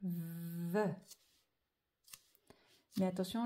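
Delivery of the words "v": stretched syllable. Shown as a demonstration. Stretches syllable while writing it.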